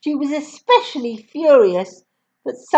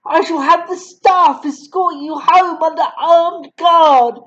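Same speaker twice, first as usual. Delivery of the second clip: higher, louder scolding; furious tirade; 5 semitones higher, 3 dB louder than usual. Acted. Headmistress berating Matilda, higher and louder. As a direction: pile the insults on.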